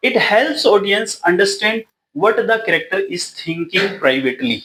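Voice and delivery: reads each English word out slowly for notes; slow dictation. Shown as a demonstration. Teacher dictating notes to students, slow and deliberate. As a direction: spell out the definition word by word.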